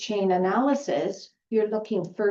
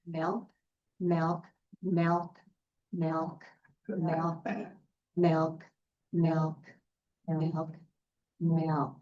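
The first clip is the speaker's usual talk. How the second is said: steady, rhythmic repetition of "milk", fading softer; repeating milk; 4 dB quieter, much slower than usual. Shown as a demonstration. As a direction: say "milk" over and over like a calm chant. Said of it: "I want you to repeat the word milk".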